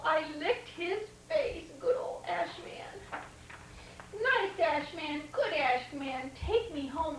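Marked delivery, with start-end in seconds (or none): 4.1-7.2 pleading. Acted. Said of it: "I said".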